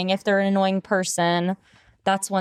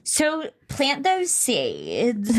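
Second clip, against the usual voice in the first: very slow mock-profound delivery; slow and solemn; 3 semitones higher, much slower than usual. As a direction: say it like a grand life motto.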